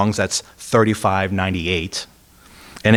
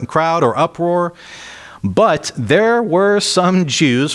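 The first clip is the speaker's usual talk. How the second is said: scripture reading, slowing; 6 semitones higher than usual. Acted. Reads Paul's defense aloud.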